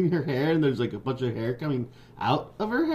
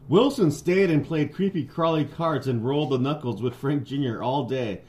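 animated storybook reading; story narration. A narrator's reading. Reader telling a friend a Halloween picture book, animated narration. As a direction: read it out like a picture book, with lively swings.

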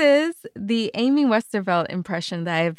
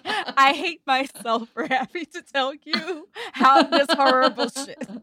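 mock self-loathing host tone; 4 semitones higher than usual. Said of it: "That's exactly your tone on Drilled".

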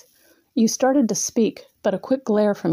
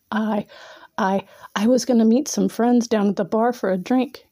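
nervous halting stammer on the first words; stuttering. Acted. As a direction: stumble over the start, caught off guard. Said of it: "you stuttered".

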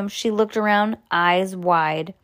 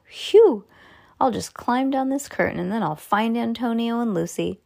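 relieved phew; 5 semitones higher than usual. Acted. Sam relieved after danger passes.

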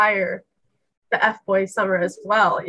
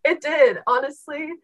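trembling with excitement; shaky voice. Real, not acted. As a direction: voice shaking from nerves. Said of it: "You can hear it in my voice".

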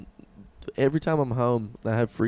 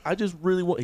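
high mock tearful plea; mildly whiny fake crying; imitated crying; 5 semitones higher than usual. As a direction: plead it higher, imitating a weepy streamer. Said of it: "cried on stream".

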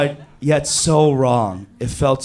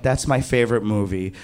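lower, fast deadpan brush-off; a bored, lower-voiced girl waving it away; bored dismissal; 5 semitones lower, 4 dB quieter than usual. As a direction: shrug him off flatly. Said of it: "She was like".

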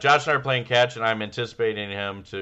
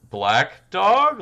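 puzzled question; 10 semitones higher, 7 dB louder than usual. Retold or imitated. Quoting himself to the kid.

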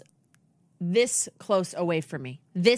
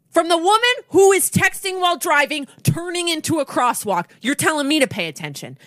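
retold outburst; 8 semitones higher, 4 dB louder than usual. Retelling her outburst at the driver.

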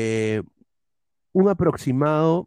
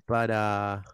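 dictado lento; 3 semitones lower, 5 dB quieter than usual. Real, not acted. Dicta mientras escribe.

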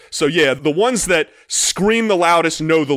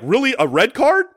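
disbelieving, pitched up; incredulous; 6 semitones higher than usual. Retold or imitated. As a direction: protest in disbelief. Retold incredulous protest to ref.

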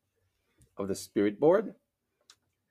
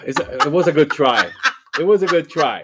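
laughing it off, louder; 6 semitones higher, 11 dB louder than usual. Real, not acted. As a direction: chuckle through the words. Laughing after failed attempt.

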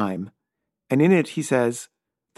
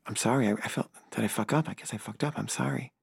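softer, trailing, guilty mumbled sorry; sheepish apology; 9 dB quieter than usual. Retold or imitated. Apologizing to snubbing filmmakers, softer and sheepish. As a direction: apologize as if ashamed, voice sinking.

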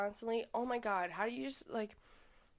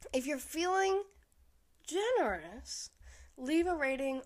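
coy ask; 6 semitones higher than usual. Real, not acted. Coy plea for reviews.

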